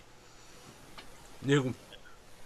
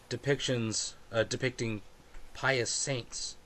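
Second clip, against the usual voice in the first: measured, slow scene narration; game master scene setting; 4 dB quieter, slower than usual. Acted. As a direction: paint the scene slowly, fading softer.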